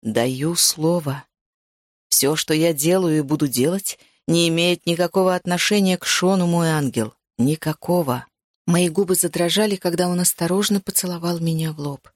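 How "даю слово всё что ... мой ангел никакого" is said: male vow with a smile. Acted. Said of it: "с лёгкой улыбкой". (низкое медленное нежное обещание с улыбкой)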